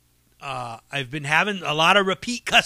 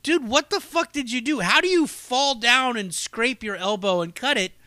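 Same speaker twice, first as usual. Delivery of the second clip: higher, mock-outraged grilling; incredulous scolding; 5 semitones higher than usual. Telling Adam off about his elbow, incredulous. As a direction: pile on the disbelief. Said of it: "And then I told him, like".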